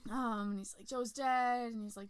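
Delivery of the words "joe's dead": scared blurt. Retold or imitated. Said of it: "he's all scared".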